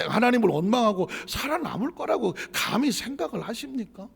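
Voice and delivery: emphatic rhetorical rebuke; forceful challenge. Real, not acted. Question repeated with more force.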